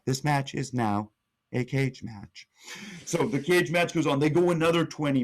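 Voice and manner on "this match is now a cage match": lightly imitated computer announcement; a hint of social-media computer voice, with measured pauses. Titantron telling the crowd the new stipulation, lightly voiced computer. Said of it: "that weird computer voice".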